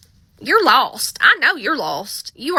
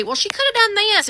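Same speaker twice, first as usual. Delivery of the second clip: higher, know-it-all retort; mock viewer objection; 9 semitones higher than usual. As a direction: imitate a smug commenter. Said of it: "And before you say".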